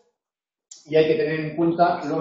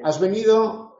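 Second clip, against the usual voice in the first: has venido with a rising question tune; 4 semitones higher than usual. Shown as a demonstration. Teacher showing the question tune, rising. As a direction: ask has venido, lifting on venido. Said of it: "La entonación también tiene valor distintivo".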